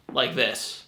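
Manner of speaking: drowsy, fading mumble; half-asleep trailing voice; dozing off. Shown as a demonstration. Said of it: "I'm just falling asleep".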